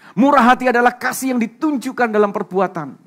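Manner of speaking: loud, high-pitched preacher's proclamation, easing towards the end; full-force preaching. Real, not acted. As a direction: drive the point home at a shout.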